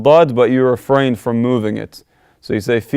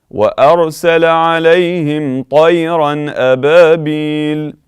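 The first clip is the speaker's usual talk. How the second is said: higher, louder melodic tajweed chant; Quran recitation; 5 semitones higher, 5 dB louder than usual. Acted. Teacher reciting the whole verse melodically. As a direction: lift into full recitation.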